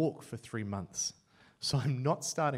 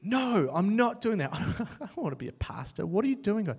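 much louder, higher refusal; loud protest; 6 semitones higher, 10 dB louder than usual. Retold or imitated. Young man refusing to become a pastor, loud protest. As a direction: push back hard, half laughing. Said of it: "I'm like".

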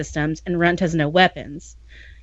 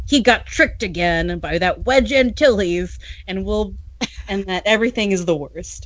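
whiny Kel voice. Acted. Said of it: "like whiny Kel voice?".

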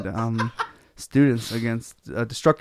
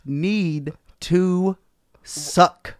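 laughing; 7 semitones higher, much slower than usual. Real, not acted. Laughing disbelief.

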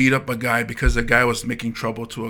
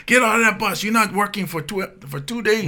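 dad suspending son; 7 semitones higher than usual. Retold or imitated.

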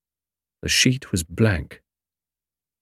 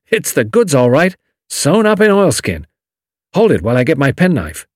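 triumphant; 6 semitones higher than usual. A narrator's reading. Julius triumphant.

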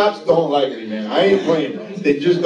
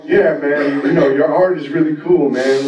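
laid-back nephew; 6 semitones lower than usual. Retold or imitated. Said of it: "type of guy".

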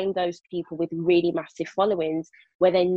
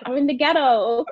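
laughing; 7 semitones higher, 5 dB louder than usual. Acted. Laughing joke about the title.

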